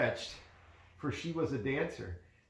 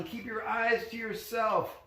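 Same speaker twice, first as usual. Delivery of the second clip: goblin voice; 8 semitones higher than usual. A narrator's reading. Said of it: "cried the goblin".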